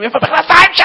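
high, furious comic yell; irate husband yelling through the house; angry shout. Acted. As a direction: holler in exasperation, voice way up. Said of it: "קם בעצבים".

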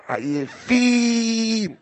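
עייפים with the last vowel stretched very long; drawn-out word. Shown as a demonstration. Rabbi mocking a family of tired people, long drawl. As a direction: drag עייפים right out.

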